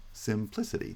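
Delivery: Simplicity as sim-PLI-city, softly checked; primary stress on PLI. Shown as a demonstration. Teacher checking the syllable count, Simplicity with PLI stressed. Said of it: "has primary stress".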